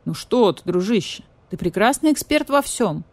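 soothing, placating tone; calm the touchy expert down; peaceable. Acted. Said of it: "миролюбиво сказал барсук".

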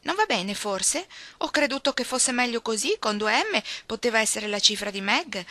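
voce acuta di bambina che si giustifica; un po' turbata. Acted. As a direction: parti alta e incerta, poi scendi. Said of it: "un po' turbata". (turbamento lieve, voce acuta)

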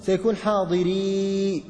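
حاضري held long and sung slow, final ي kept; pausal form demo. Shown as a demonstration. Teacher shows the pause on حاضري, slow chanted. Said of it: "لو وقفنا على كلمة حاضري".

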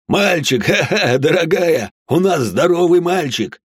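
laughing, loud and high; father calling out to his wife; overjoyed father. Acted. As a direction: shout the good news through a laugh. Father announces son, laughing.

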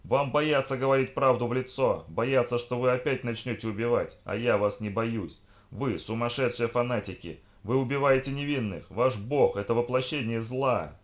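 forceful public accusation; shouted denunciation. Acted. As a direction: hurl it at a hostile crowd. Consuela denounces the crowd in shouts.

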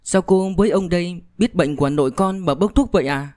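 put-on high-pitched, mildly delighted child; delighted girl. A narrator's reading. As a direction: ask with happy wonder in a high girl's voice. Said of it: "Gái chị sung sướng". (giọng bé gái cao, sung sướng hỏi)

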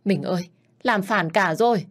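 high, loud panicked cry; shrieking alarm. Acted. The first wife crying out to her husband about the betrayal, alarmed shout. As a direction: cry out to your husband for help. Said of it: "Bà cả lúc này hét lớn".

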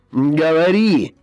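shouted order. A narrator's reading. Boy shouting at the girl again, barked. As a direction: snap the order at her. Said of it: "снова прикрикнул Мишка".

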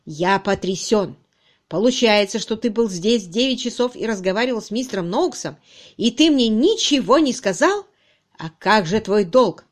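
outraged boss dressing down a subordinate; stern, indignant chief; indignant reprimand. Acted. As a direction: scold with rising, emphatic disbelief. Chief scolds his subordinate.

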